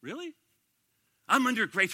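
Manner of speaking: breathy disbelieving really; incredulous. Real, not acted. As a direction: scoff at the excuse. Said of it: "incredulous reply".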